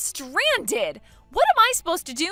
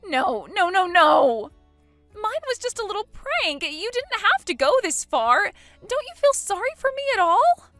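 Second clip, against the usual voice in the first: much higher and louder; shrill pleading; 8 semitones higher, 9 dB louder than usual. Acted. Bride begging her sister-in-law for sympathy, shrill plea. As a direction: beg for pity.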